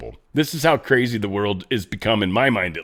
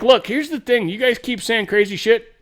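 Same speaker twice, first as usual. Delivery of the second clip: mocking Meghan McCain; 10 semitones higher than usual. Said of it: "she's like".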